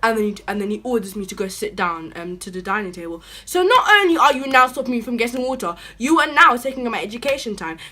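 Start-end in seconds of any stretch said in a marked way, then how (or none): 3.5-7.8 louder, incredulous laugh; disbelieving rant through a laugh; angry, laughing rant; laughing outrage. Real, not acted.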